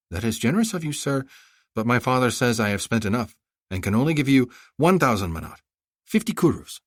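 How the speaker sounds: put-on a clever girl haggling sweetly; young girl voice.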